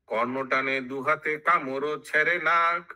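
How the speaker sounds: measured chanted verse with drawn-out line endings; sing-song Bengali verse recital; verse recitation. Acted. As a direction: intone it like epic scripture.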